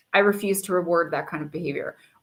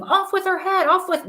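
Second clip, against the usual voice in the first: mock scream; 11 semitones higher than usual. A narrator's reading. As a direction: read the queen's outburst high and urgent. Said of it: "began screaming".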